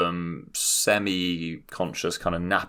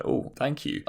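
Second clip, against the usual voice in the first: breathy thank you; 8 semitones higher, 6 dB quieter than usual. Retold or imitated. Retold reply, breathy thanks.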